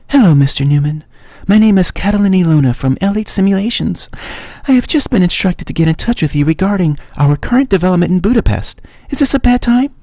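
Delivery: high, breathy-free Eastern European woman's voice; a caller with an Eastern European accent asks his name. Acted. Caller from LH Simulations asks for Mister Newman, Eastern European accent. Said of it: "very sexy female voice in an Eastern European accent".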